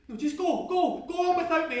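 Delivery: high, loud, desperate urging; crying out. Acted. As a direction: send a friend away with a shout. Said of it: "I cry".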